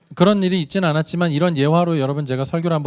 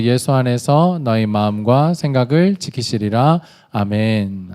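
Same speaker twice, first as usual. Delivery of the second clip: loud, slow unison scripture recital; group recitation; 3 semitones lower, 5 dB louder than usual. Acted. Pastor leading the congregation in recitation, loud unison reading.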